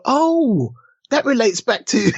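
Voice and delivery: a light "oh" of sudden discovery; mock realisation.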